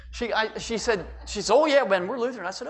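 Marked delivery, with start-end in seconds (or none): 1.5-2.5 mom's reply. Retold or imitated. Mother answering young Ben.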